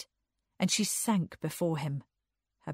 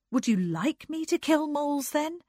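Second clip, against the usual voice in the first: high, questioning lilt; lifted, hesitant question; tentative asking; 9 semitones higher, 3 dB louder than usual. A narrator's reading. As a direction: feel out the answer tentatively. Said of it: "she asked tentatively".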